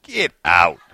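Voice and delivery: lightly voiced Lord, dropping low; a hint of divine command, low-pitched. The Lord at a sleeper's bedside, mildly commanding. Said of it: "and the Lord just".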